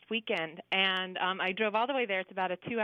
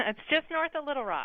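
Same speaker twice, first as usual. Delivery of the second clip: bright-spirited, higher-pitched reply; chipper; 4 semitones higher than usual. Real, not acted. Caller tells the hosts where her town is, chipper. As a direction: chirp it helpfully. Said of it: "you sound very chipper today".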